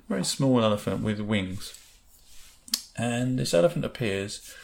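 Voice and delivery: measured meditation voice with pauses; guided meditation. Acted. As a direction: guide listeners gently through an imagined scene. Leads a guided visualisation.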